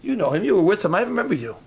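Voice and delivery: hint of a prying servant girl, hurried; lightly voiced little lady. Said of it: "the little lady said to him".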